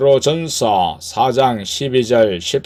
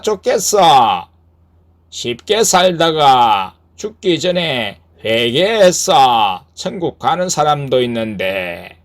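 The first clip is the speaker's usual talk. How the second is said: negative devil; 3 semitones higher than usual. Acted. Devil following the boat plants doubt in the rower, lightly voiced tempter.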